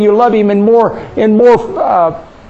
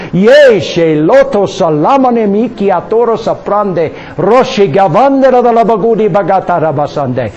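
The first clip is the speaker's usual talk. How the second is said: speaking in tongues. Real, not acted. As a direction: let the tongue run freely. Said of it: "speak with other tongues".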